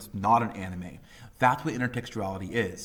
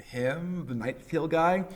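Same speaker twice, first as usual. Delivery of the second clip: incredulous public; 7 semitones higher than usual. Retold or imitated. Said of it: "a lot of people went".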